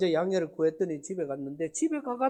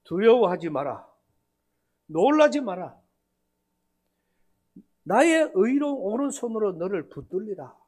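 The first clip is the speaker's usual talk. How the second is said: preaching. Retold or imitated. Pastor preaching the verse back at Wednesday service, solemn. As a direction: proclaim it from the pulpit. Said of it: "거꾸로 설교를 한 겁니다".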